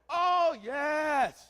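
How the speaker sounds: loud, high mock delight; big showman's yes; hammed-up exclamation. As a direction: belt it out like a boast. Excited reply to own bathing joke.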